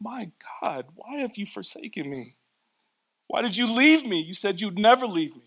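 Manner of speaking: mock anguished, high, pleading cry. Reading emotion into a Bible verse, acting it out: imitating someone crying out. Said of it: "He was crying these words".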